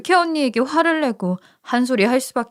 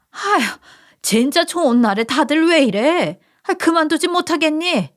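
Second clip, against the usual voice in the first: distressed mother; 6 semitones higher than usual. Acted. Mother stops her sons fighting.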